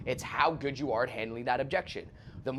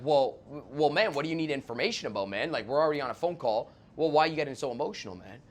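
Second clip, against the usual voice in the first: emotional salesman. Retold or imitated. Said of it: "once you get emotional".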